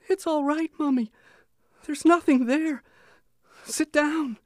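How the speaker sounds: put-on small child, high and pleading; a young son calming his mother; little boy voice. A narrator's reading.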